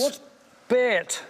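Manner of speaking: imitating the Cumbrian way of saying bait; Cumbrian accent. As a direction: copy the local Cumbrian vowel in bait. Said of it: "you got my Cumbrian accent perfect there".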